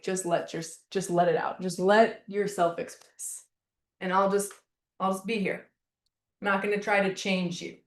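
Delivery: a quiet friend saying stay with it; understated tender reassurance; gentle support. Retold or imitated. Voicing a supportive listener.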